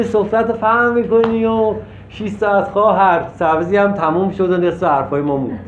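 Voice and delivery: lightly imitated gossip pouring out troubles; a hint of a kitchen gossip rambling on; mock heart-to-heart chatter. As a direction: parody a chatty venting session. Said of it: "اون درد دله".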